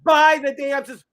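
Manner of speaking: drawn-out, high, passionate shout; impassioned yelling sales push. Real, not acted. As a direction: holler each word like a fired-up pitchman. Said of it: "Why is he yelling at me".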